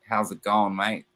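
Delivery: light British-Australian accent; British Aussie accent. Shown as a demonstration. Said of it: "British Aussies are gonna have that".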